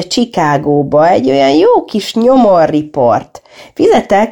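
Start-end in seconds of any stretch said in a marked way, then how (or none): 3.7-4.3 raised voice calling for the bill; called out. A narrator's reading. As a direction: call the waiter across the room. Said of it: "kiáltott".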